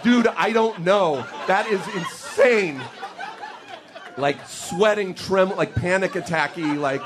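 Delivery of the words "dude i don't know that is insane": slow, higher, awed; dazed. Retold or imitated. Stoned student answering his friend, slow and awestruck. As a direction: drag it out like your mind is blown. Both stunned by the coincidence.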